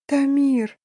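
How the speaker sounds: high, wailing call of his name; wife sobbing his name, high wail; wailing cry. A narrator's reading. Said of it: "завыла".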